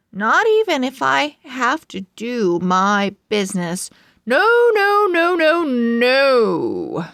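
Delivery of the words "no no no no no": emphatic refusal. Acted. Pug refuses to go out in the rain, loud. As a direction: refuse it louder then settle.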